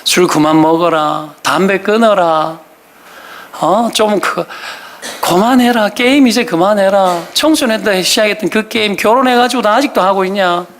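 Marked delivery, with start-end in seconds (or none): 0.0-2.6 slow list of mock nags; endless nagging. Nagging family over phone, drink and smoking, slow imitated nagging. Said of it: "계속 잔소리 하는 거죠". 5.2-10.6 mild mock scolding over games; endless nagging. Spouse nagging a grown gamer to quit, mildly imitated scolding. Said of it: "계속 잔소리 하는 거죠".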